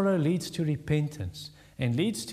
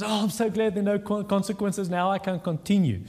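mock relief; 4 semitones higher than usual. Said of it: "when there are no consequences".

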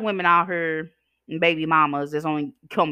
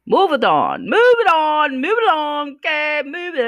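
high sing-song shooing; 10 semitones higher, 4 dB louder than usual. Acted. Shooing exes to move on.

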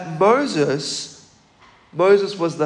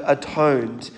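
"atoned" set apart, pitched low; emphasis on atoned; 5 semitones lower than usual. Shown as a demonstration. Preacher singles out a key word for the congregation, "atoned" emphasized. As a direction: land deliberately on "atoned", dropping the pitch. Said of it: "Let me emphasize that word".

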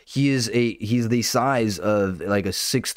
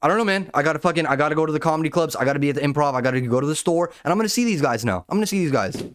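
much higher, fast, fretful mock voice; Bobby impression; 6 semitones higher, much faster than usual. Mocking Bobby fretting about his comedy clubs, high and fast. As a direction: rattle it off high and worried. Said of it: "Bobby's just like".

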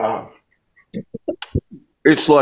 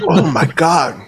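pained cry; 2 semitones higher than usual. Real, not acted. In pain from hot pepper.

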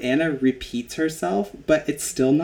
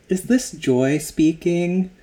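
slow, higher feigned confusion; mock innocent question; 4 semitones higher, slower than usual. Podcast host imitating Kim feigning not to hear Joy, slow and innocent. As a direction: play dumb, slow and a little higher. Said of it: "she's like".

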